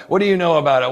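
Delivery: put-on high, loud scoffing old-timer; doubting old client. Eighty-year-old client doubting the young trainer, high loud scoff. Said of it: "someone that's eighty is like".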